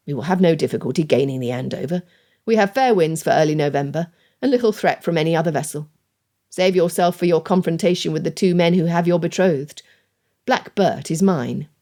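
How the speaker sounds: lightly voiced commanding captain; stern sea captain.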